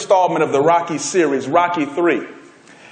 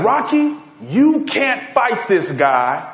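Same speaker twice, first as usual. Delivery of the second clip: name called high, then very slow warning; drawn-out, emphatic imitation of an old coach; Mickey; 6 semitones higher, much slower than usual. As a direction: lightly act an old trainer spelling out a warning. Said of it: "Mickey's like".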